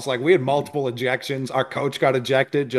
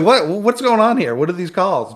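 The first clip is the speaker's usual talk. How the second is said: higher-pitched incredulous protest; mock bafflement; 6 semitones higher than usual. Fan recounting reaction to the referees' calls, incredulous. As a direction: act out confusion at bad officiating.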